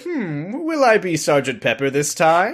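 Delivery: high-pitched pondering hum; musing Doctor. Retold or imitated. Retelling the Doctor choosing clothes on the Tardis, lightly musing.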